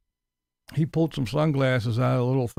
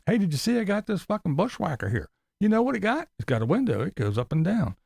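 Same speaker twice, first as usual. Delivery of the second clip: higher, goofy mock impression of a braggy vlogger; mocking Tim; 7 semitones higher than usual. Mocking Tim showing off his bushwhacker window. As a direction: parody a guy showing off his truck. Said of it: "Tomorrow's video".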